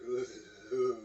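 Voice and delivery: imitated creeped-out shudder noise; acted wordless "ugh" of the creeps. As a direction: shudder aloud as if chills run down the spine. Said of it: "creeps down his spine".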